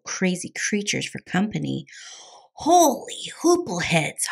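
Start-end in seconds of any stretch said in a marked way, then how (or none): 2.5-4.2 high-pitched cartoon holler; high, alarmed kitty yell. A narrator's reading. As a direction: cry out in comic alarm. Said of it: "hollered Scapito".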